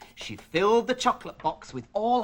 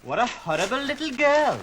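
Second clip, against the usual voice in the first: a light put-on paint box voice, higher and a bit louder; 8 semitones higher, 5 dB louder than usual. Storyteller voicing the paint box scolding Priscilla, lightly put-on voice. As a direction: voice the paint box tutting at the girl. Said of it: "the paint box said".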